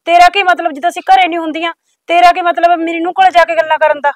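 loud, accusing questions; mother-in-law accusing the neighbour, loud and angry; angry confronting. Acted.

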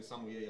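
sommelier said sah-mwee-AY, with a W glide and no L; French-style pronunciation. Shown as a demonstration. Explaining what French speakers say, sommelier as sah-mwee-AY. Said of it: "if they're from France".

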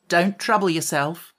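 light, breezy and upbeat; a bright, carefree no thanks; cheerful brush-off. Acted. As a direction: wave off his offer happily. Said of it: "said Ginger cheerfully".

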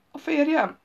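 high-pitched whimpered question; whining squeal. A narrator's reading. Jáspis learns it is her husband, whining. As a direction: whine it, leaping up high in dismay. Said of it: "vinnyogta Jáspis".

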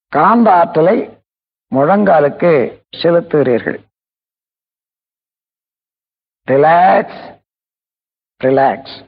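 measured meditation voice, long pauses; guided relaxation. Real, not acted. Teacher guiding listeners to relax feet and knees, unhurried meditation delivery. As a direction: guide them through it phrase by phrase, stretching key words. Leads a body relaxation exercise.

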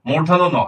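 "মূর্ধন্য ন" said distinctly, set apart from the sentence; standard pronunciation. Shown as a demonstration. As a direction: model the letter name "মূর্ধন্য ন" for learners. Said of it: "এটার হবে হচ্ছে".

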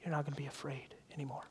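soft unvoiced whisper. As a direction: breathe it like a voice in the soul. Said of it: "I hear whispered in my soul".

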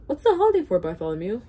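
put-on high thin old man voice. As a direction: quaver it like an old ringer. Old bell ringer voiced.

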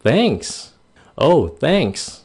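high, pleasantly surprised "Oh, thanks"; surprised, grateful thanks. Shown as a demonstration. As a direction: sound delighted and caught off guard. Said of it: "mà các bạn ngạc nhiên".

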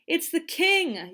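high, drawn-out excited call; slow, high yell of a child; mild excited yell; kids' yell. A narrator's reading. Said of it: "yelled the other kids".

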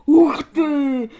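loud, thrilled exclamation; excited shout. A narrator's reading. Sol cheers as Flo slaps Anna-Liza, excited shout. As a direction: whoop at the slap. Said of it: "вигукнув Сол".

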